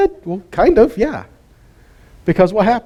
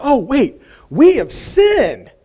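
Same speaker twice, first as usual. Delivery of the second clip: mock realisation; 9 semitones higher, much slower than usual. People's belated realisation voiced.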